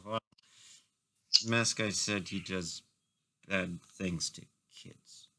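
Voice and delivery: quiet, slow murmur dropping away; a hushed, secretive aside; whispering character. Acted. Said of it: "like, whispering that".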